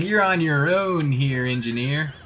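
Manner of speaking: put-on a light cowboy-surfer accent, easy and unhurried; Western surfer accent. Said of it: "I had a Western surfer accent there".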